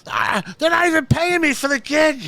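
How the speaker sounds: high, loud put-on grumble; grumpy old comic. Imitating Chips griping about pay, high and whiny. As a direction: mimic a griping old-timer. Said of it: "He's like".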